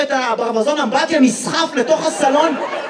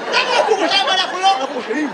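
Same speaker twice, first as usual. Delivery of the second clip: mock protest; 6 semitones higher, faster than usual. Playing the ones who get yelled at.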